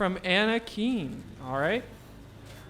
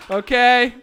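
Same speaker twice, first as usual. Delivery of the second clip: Okay? pushed out louder and rising; 5 dB louder than usual. Shown as a demonstration. Host pressing the crowd for agreement, louder. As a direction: call Okay? out to the back of the room. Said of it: "Okay? repeated louder".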